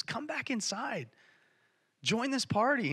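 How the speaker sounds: high, drawn-out coaxing appeal; pleading. Retold or imitated. Father going out to his older son, pleading. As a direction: imitate a father gently begging his son. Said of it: "he pleads with him".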